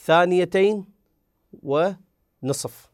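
ونصف stretched very slowly to show the length; slow timing demo; drawn out. Shown as a demonstration. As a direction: hold ونصف as if counting seconds. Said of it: "إذا نحسب بالثواني".

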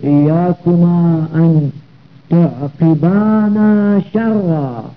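very slow, drawn-out verse recitation; metrical, stretched Arabic verse; poem recitation. Acted. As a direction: recite the line of verse with long held vowels. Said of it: "كقول الشاعر".

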